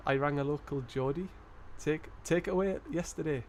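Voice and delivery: lightly put-on Geordie, rising line ends; attempted Geordie accent. Streamer reading a viewer's joke, attempted Geordie accent. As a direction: read the joke in a tentative Geordie lilt. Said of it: "put on your Geordie voice now".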